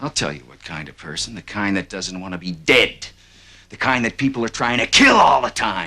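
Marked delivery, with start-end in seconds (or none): 1.4-5.9 furious angry yelling, pitch climbing higher. In a scene, one character answers another's question, shouting angrily. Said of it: "then what are you shouting at me for?".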